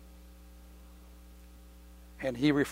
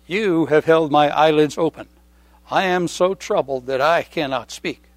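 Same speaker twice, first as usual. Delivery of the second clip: scripture reading; 4 dB louder than usual. Acted. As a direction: read the psalm with weight. Reads psalm aloud.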